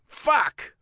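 high, loud outburst; scream. A narrator's reading. Biker punching the door, screaming. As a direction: scream it out in frustration. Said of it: "I scream".

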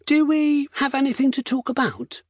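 high, challenging question; pointed question. A narrator's reading. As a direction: toss back a cheeky challenge. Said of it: "Will asked".

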